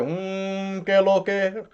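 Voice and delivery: long meditative hum into Spanish; hammed-up Buddha drone with Dominican slang. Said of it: "I'm Dominican Buddha".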